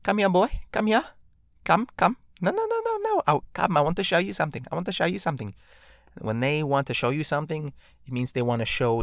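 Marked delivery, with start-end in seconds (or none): 0.0-5.5 mock menacing immigrant mom; immigrant parent. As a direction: lure the kid in like a menacing parent. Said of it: "immigrant parents, uh, just say".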